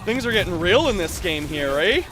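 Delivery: put-on playful, high-pitched Canadian accent; full Canadian accent. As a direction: lay on a broad Canadian accent, eh. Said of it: "I gotta turn full Canadian here".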